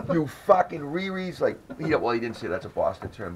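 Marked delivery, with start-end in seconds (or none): 0.1-1.4 laughing insult. Retold or imitated. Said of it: "He's like".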